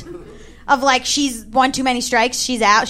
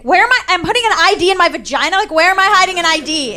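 incredulous, slightly raised retort; mildly indignant disbelief; indignant protest; 3 semitones higher, 3 dB louder, faster than usual. Retold or imitated. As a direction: protest the absurd accusation. Retold protest at being searched.

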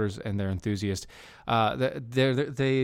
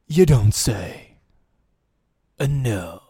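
sarcastic; 3 semitones lower, 6 dB louder, slower than usual. Acted. Sarcastic reply after mock outrage.

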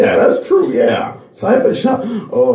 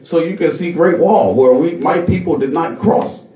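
third-person parody, starting high then settling; Feng Shui; 7 semitones higher than usual. Retold or imitated. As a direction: mimic a self-announcing handyman making his pitch. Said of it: "speaks to themselves in a third per".

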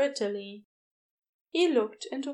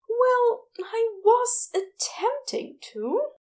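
higher, gentle fussy Aziraphale voice, embarrassed; flustered angel; 12 semitones higher, 3 dB louder, slower than usual. A narrator's reading. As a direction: play a flustered, apologetic angel.

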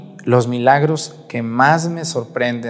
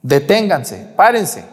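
rising command; slower than usual. Acted. Stranger halting the funeral procession, commanding. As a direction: stop the pallbearers with growing force. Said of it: "toca el ataúd y les dice".

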